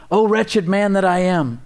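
pleading cry of a failing man; anguished lament. Acted. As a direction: read it as a man at the end of himself. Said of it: "Romans seven twenty-five".

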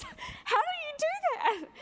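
astonished mentor. Retold or imitated.

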